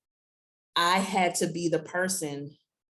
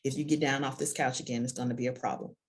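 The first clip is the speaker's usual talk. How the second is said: low, softer firm warning; a hint of stern mom; 3 semitones lower, 4 dB quieter than usual. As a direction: quietly warn the child. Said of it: "And I'm like".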